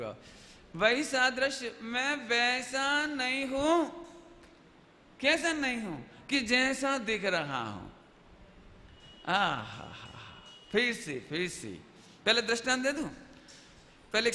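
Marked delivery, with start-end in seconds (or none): 0.8-7.9 slow, drawn-out preaching voice, each phrase stretched; hammed-up pulpit delivery, savouring every word; mock sermon. Teacher mimics a sermon for the class, slow and solemn. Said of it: "प्रवचन होगा शुरू". 9.3-10.4 theatrical laugh. Pretend. Mock sermon ends in laugh.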